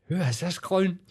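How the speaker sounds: retold younger self. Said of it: "And I'm like".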